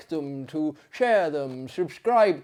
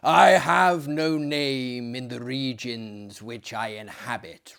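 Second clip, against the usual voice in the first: mournful voice; 4 dB louder than usual. Acted. The fiend answering the sleeper, mildly mournful. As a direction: let the ghost's sorrow weigh on it. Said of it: "replied the voice mournfully".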